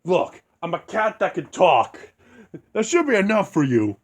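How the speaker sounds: a light smug cat voice; the cat showing off to Doctor Strange; Cat in the Hat voice. Retold or imitated. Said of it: "And Cat would say".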